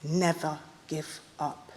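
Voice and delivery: soft whisper-like. Pretend. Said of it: "it will whisper in your ear".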